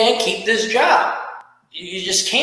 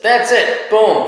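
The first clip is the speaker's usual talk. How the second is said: announced out loud; 3 semitones higher, 5 dB louder, slower than usual. Real, not acted. Wrapping up the show.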